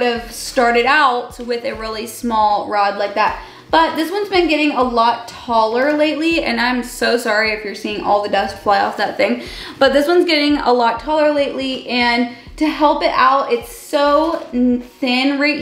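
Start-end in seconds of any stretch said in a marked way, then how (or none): none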